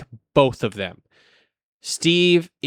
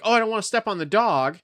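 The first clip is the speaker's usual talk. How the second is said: mimicking old lady; 7 semitones higher than usual. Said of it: "the old lady was like".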